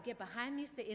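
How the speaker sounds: imitated Southern accent, playful rebuke; a touch of Southern accent on a teasing rebuke. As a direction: lightly mimic a woman's Southern accent. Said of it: "in her southern accent".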